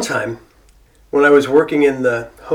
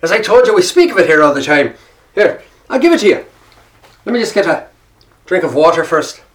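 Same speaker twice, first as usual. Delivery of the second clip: imitated Irish fella. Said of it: "he looks at me and goes".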